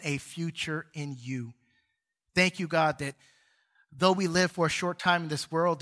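earnest, measured prayer voice; closing prayer. Acted. Pastor closing the sermon praying to God, earnest prayer. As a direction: pray it over the congregation, steady and sincere.

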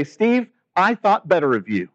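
mildly voiced let-down reproach; a hint of a hurt friend scolding; disappointed. Friend scolding the pastor for treating his wife coldly, mildly disappointed. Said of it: "Monica would say".

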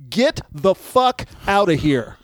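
retold dismissal. Retold ejection of comic.

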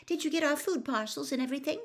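put-on high, quick girl's voice; Hermione's voice. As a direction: rattle off a question in a high girlish voice.

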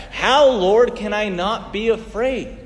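anguished plea to God; pleading cry to God. Acted. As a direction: call out to the Lord in desperation. Crying out to God in prayer.

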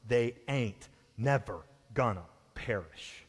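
slow folksy Southern double negative. Retold or imitated. Preacher in Southern twang quoting Jesus. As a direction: drawl it like a good Southerner. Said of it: "Literally, he is saying".

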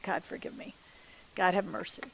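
whispered plea for mercy, very soft; soft penitent whisper to God; hushed prayer. Retold or imitated. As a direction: breathe the prayer out almost silently. Quiet repentant prayer retold.

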